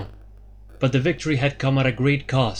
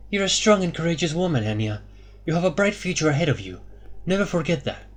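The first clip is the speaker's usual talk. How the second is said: warmth; 5 semitones higher, 3 dB quieter than usual. A narrator's reading. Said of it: "her voice filled with warmth".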